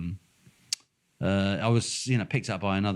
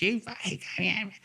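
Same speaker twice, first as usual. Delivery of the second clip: mock furious driver; 11 semitones higher, 3 dB quieter, much slower than usual. Angry young driver mimed.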